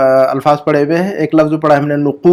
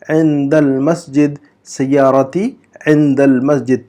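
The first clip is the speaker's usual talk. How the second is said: slow repeat; slower than usual. Shown as a demonstration. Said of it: "तो हम कहेंगे".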